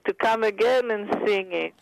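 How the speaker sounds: imitating a heavy Austrian accent. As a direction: speak it with a thick Austrian accent. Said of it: "in his heavy Austrian accent".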